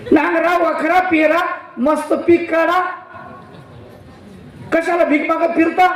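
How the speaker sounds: high-pitched, pushy advice; nagging villagers. Retold or imitated.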